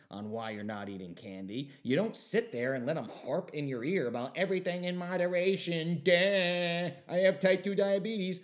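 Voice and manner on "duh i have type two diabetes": loud dopey caricature voice; silly mock voice. Mocking the coworker who defends candy, loud and dopey. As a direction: play the clueless diabetic for laughs. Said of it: "little silly voices".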